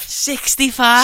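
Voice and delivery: mock-solemn; very slow, drawn-out mock-solemn "Sixty-five". Echoing the colleague's age, drawn-out mock-solemn.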